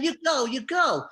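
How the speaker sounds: high, loud, drawn-out mock protest; imitating the protesting woman. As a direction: mimic her yelling, slowly stretched. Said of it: "and the woman's going".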